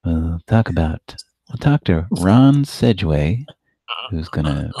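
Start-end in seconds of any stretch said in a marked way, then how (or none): 0.1-3.4 slow, measured radio host; calm public radio announcer; NPR host voice. Pretend. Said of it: "an N P R tone here today".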